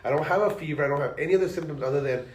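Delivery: congested voice, nose blocked; stuffy nose. Real, not acted. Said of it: "my fucking head is sh-, stuffed up".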